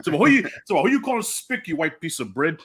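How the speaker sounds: quoting Tony's comeback through a laugh; Tony Montana quote. Retold or imitated. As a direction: throw back the insult like Tony, half laughing. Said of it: "remember when she called him a spick".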